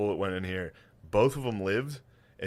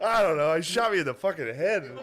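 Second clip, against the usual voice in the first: higher, laughing voice; laughing retold reply; 4 semitones higher, 3 dB louder than usual. Wife answering her husband, laughing and raised. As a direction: tell it through giggles. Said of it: "couple talking after shots".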